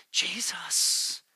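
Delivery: a soft unvoiced whisper; whispered answer. God answering the struggling believer in a whisper. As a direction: breathe the name gently.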